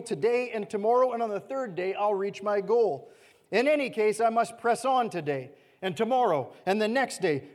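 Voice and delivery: firm, measured, lightly voiced Jesus; Jesus' reply read aloud. Jesus answering the Pharisees, lightly voiced and firm. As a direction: deliver his defiant answer steadily.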